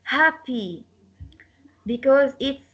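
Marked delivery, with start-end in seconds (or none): 0.0-0.8 "happy" stressed on the first syllable. Shown as a demonstration. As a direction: lean on the ha of "happy". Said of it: "the stress will be on ha".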